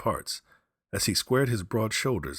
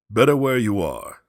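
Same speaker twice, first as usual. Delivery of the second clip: gruff warning; 6 semitones higher, 12 dB louder than usual. Acted. Soldier warns the old man.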